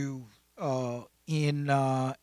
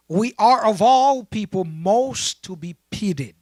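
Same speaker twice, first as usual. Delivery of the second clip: emphatic, raised-pitch verse reading; loud swell on the second clause; scripture reading; 3 semitones higher, 6 dB louder, slower than usual. Real, not acted. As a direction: read scripture out in connected, measured phrases. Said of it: "read the verse with you".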